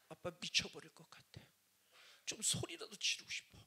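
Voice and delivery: soft, low, worn-out father; a desperate father asking his daughter to go singing; weary plea. Retold or imitated. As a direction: plead quietly with your daughter.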